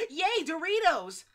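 high loud slow hammed-up cheer; mock cheer. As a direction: cheer for the Doritos like a happy child.

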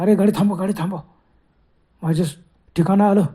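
loud call to stop the car; urgent shout. Acted. Ghostly passenger shouting at driver, loud. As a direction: yell at the driver to stop now.

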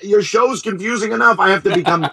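hammed-up confused mom; imitating mom. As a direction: squeak it out like a baffled mother. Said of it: "my mom calling up going".

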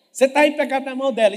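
ordinary delivery

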